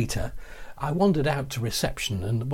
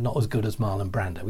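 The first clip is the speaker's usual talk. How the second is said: incredulous repeat; 4 semitones lower than usual. Retold or imitated. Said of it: "What do you mean".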